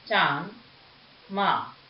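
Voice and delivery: "चांद, माँ" with the vowel through nose and mouth together; nasalized vowel examples. Shown as a demonstration. Teacher to pupils, showing chandrabindu: nasalized "चांद, माँ". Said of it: "नाक और मुंह दोनों से होता है".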